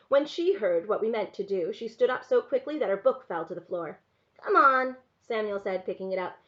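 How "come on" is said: put-on loud, higher child's call; urging little boy. A narrator's reading. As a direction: chivvy her along like a small boy. Boy urges his sister.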